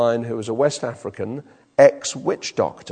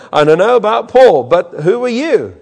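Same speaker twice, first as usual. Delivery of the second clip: evil spirit voice; 6 semitones higher, 9 dB louder than usual. Retold or imitated. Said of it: "the evil spirit answered them".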